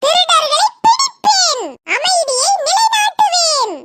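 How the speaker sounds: put-on high, slow child's stage shout; child declaiming heroically. Fancy dress contestant playing a police officer, high declamatory shout. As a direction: proclaim each vow with long drawn-out endings.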